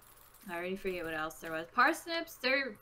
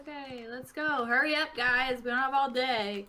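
huffy old Southerner, voiced from game dialogue; Southern accent; 3 dB louder than usual. Old man rebuffs helpers, huffy Southern accent. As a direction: read it as an impatient Southern old-timer. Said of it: "He went from Southern to British".

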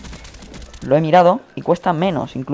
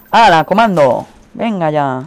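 louder, startled outcry; loud exclamation; 6 dB louder, slower than usual. Real, not acted. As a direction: blurt it out in shock. Shocked reaction to enemy.

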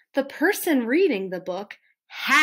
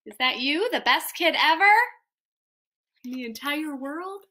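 teasing question that softens at the end; doubtful questioning; 2 semitones higher, faster than usual. Acted. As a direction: ask it in playful disbelief. Reader doubtfully questions the praise.

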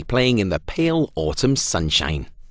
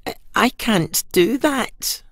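higher, slow halting sad pumpkin; mild sadness, slow and high; 12 semitones higher than usual. A narrator's reading. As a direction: stammer it out, let down. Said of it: "said Pumpkin sadly".

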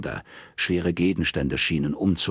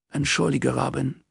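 lightly voiced sleepy sister, pitched higher; a hint of a yawning sister, higher; sister's voice; 8 semitones higher than usual. A narrator's reading. Sister apologising as Robin sits, voiced higher.

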